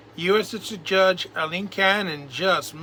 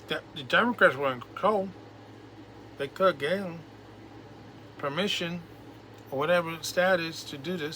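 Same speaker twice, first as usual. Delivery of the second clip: mouth full. Real, not acted. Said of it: "Sorry, I had something in my mouth".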